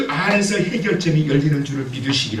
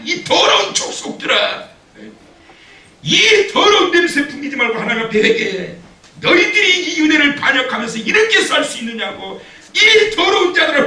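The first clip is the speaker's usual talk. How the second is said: much higher, loud condemning rant; mock tirade; 12 semitones higher, 5 dB louder than usual. Imagined Ezra scolding the people in a high, loud rant. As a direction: rail at them for their filth. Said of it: "이렇게 하지 않고".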